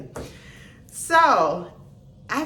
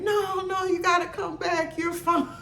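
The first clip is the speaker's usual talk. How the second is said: class reassuring; 8 semitones higher than usual. Retold or imitated. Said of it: "they were like".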